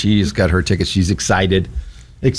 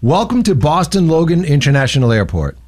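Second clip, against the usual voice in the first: airport announcer; 4 semitones higher than usual. Shown as a demonstration. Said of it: "So repeat after me".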